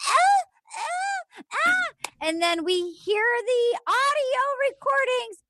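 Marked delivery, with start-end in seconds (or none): 0.1-2.1 very high stammering ahs; hammed-up high stammer; mock stammer. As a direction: squeak out the flustered ahs. Stammering reply mocked high.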